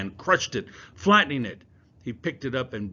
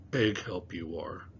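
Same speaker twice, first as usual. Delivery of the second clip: sarcastic; 3 semitones lower than usual. Acted. Unamused sarcasm.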